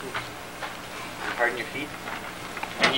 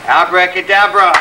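slow, loud magic incantation; kids party magician; 4 semitones higher, 7 dB louder than usual. Pretend. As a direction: call it out like a stage magician. Magic word shouted for show.

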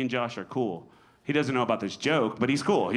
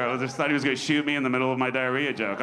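normal talking voice

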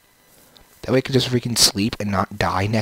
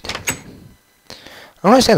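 much higher, slow silly voice; silly puzzled voice; 11 semitones higher, 5 dB louder, slower than usual. Pretend. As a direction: ham up the confusion slowly. Puzzled put-on voice.

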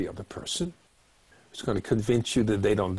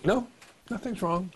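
cold shoulder; 9 semitones higher than usual. Acted. Partner giving the silent treatment to a worried other, cold shoulder. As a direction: shut them out while denying anything is wrong. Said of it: "That's the cold shoulder".

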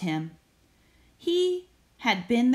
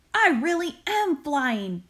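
mild chortle; 6 semitones higher than usual. Acted. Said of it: "Busby chortled".

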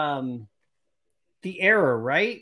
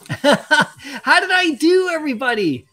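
laughing; 7 semitones higher, 6 dB louder than usual. Real, not acted. Thrilled with his pack pull.

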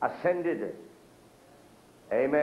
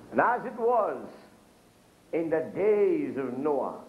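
scripture reading; 2 semitones higher, slower than usual. Acted. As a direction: proclaim the verse from the pulpit. Quotes scripture in preaching.

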